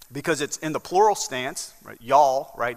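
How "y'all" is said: "Y'all" said as one Southern word, louder. Shown as a demonstration. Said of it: "That's how we say it in the South".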